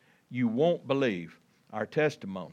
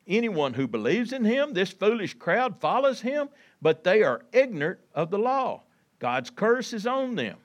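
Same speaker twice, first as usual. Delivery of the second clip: high, forceful scorn, read aloud; mock the crowd in a raised reading voice; mocking Pharisees; 7 semitones higher, 3 dB louder than usual. A narrator's reading. Pharisees scorning the guards about the crowd, raised mocking voice. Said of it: "they're mocking these".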